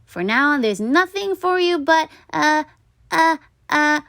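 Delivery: put-on boy crying out to his tooth; cried out. A narrator's reading. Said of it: "cried Stuart".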